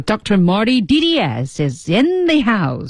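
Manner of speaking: "is in the house" drawn out slowly; distinctive showy intonation. Shown as a demonstration. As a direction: announce it with a slow flourish on "house". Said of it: "语调非常有特点". (“is in the house”拖长、隆重登场的语调)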